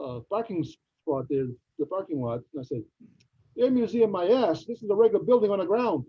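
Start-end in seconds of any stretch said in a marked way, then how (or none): 3.6-6.0 raised, scoffing outrage; indignant mock rant; scornful outburst. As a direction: scoff at the ripoff out loud. Scoffing at a fake museum.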